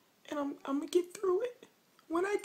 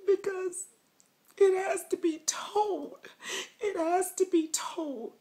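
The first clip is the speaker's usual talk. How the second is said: snotty crying. Pretend. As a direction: fake sobbing, whispery and shaky. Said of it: "Y'all thought I was crying. Not".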